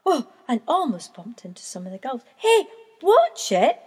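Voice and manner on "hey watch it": annoyed gull. A narrator's reading. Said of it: "said one".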